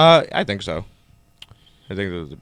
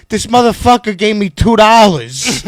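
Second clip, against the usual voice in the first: mock outraged Chips; 8 semitones higher, 6 dB louder than usual. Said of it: "He's like".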